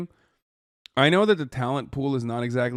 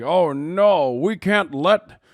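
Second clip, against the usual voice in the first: higher, louder, slowed panicked anchor; mock news anchor; 4 semitones higher, 5 dB louder than usual. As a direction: ham up a fretting newscaster. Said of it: "People in the media are always talking like this".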